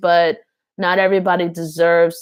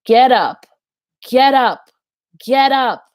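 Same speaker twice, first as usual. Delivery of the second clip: urgent command; 6 semitones higher, 6 dB louder than usual. Retold or imitated. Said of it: "He is saying".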